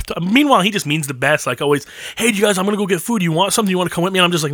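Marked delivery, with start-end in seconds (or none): 2.2-4.2 higher-pitched, eager friendly offer; well-meaning kid. Retold or imitated. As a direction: imitate an innocent hanger-on inviting everyone.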